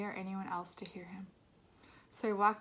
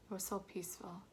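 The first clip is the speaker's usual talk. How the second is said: hushed whisper; 5 dB quieter than usual. Retold or imitated. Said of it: "Daddy said".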